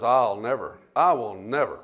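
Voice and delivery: a disciple swearing loyalty, softly; Peter's vow. Retold or imitated. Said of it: "when Peter says".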